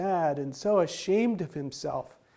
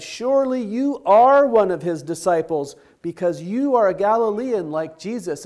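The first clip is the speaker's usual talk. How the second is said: accusing voice; 3 semitones higher, 7 dB louder than usual. Acted. Another man accuses Peter.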